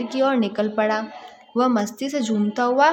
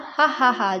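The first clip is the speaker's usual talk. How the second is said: mock laugh; slower than usual. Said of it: "दुकानदार हंसा".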